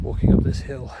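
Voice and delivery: breathless from the climb; winded, catching breath between words. Real, not acted. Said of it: "Sorry, I'm out of breath".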